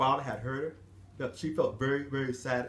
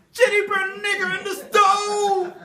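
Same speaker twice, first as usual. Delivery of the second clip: higher, slower shout with a laugh; shrill accusation; 9 dB louder, slower than usual. Acted. Mistress shouting the accusation again, slower and higher. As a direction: draw it out mockingly.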